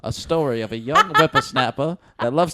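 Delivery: movie trailer voice. Pretend. Parody movie trailer announcement.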